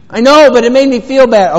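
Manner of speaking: put-on high, loud little-kid whine; whiny child. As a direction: pout it out like a hurt kid.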